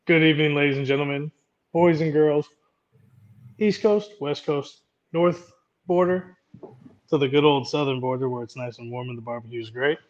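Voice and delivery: showman's welcome, big finish; ring-announcer style opening; grand entrance announcement. Acted. Host's grand welcome to show.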